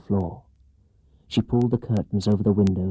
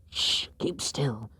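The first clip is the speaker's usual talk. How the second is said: urgent hushed whisper; softer, slow warning whisper; 3 semitones higher, 9 dB quieter, much slower than usual. Acted. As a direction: hush him without a sound. Children hiding, hushing.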